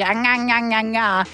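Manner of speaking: imitated nagging "nga nga" noise; mock screechy whine. Host imitating critics' view of her voice, mock screechy. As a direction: parody a grating voice in nonsense syllables. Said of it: "I'm too screechy".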